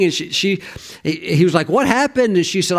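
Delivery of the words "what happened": acted astonishment. Voices husband asking, astonished.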